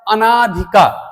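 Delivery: अनाधिकार with a long aa after the n; teacher showing the wrong long vowel in अनाधिकार; common mispronunciation. Shown as a demonstration. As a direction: demonstrate the faulty अनाधिकार, drawn-out ना. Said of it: "उच्चारण करते हैं तो अनाधिकार बोल देते हैं".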